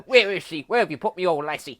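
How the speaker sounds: loud, high hammed-up British growl; comic British Batman yelling; mock British accent. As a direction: shout it like a cockney Batman. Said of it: "proper British accent".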